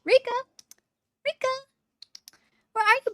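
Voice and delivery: calling out. Real, not acted. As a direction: call the cat from another room. Calling for cat in house.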